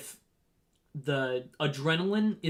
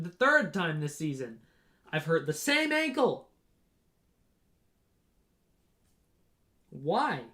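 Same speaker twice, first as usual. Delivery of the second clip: frustrated inner thought. Retold or imitated. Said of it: "I kept thinking to myself".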